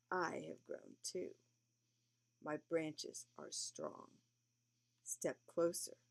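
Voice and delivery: lightly voiced old tree; speaking tree. Tree voice in poem.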